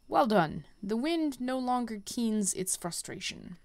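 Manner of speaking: a hint of a solemn guide sending the hero on; quest giver voice. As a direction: read the mentor's lines with gentle gravitas, hushed in places. Reads quest giver lines aloud.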